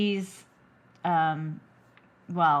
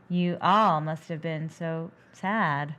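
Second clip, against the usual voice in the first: deadpan; 2 semitones lower, slower than usual. Retold or imitated. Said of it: "And you're right".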